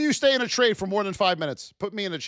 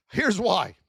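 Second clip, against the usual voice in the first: normal talking voice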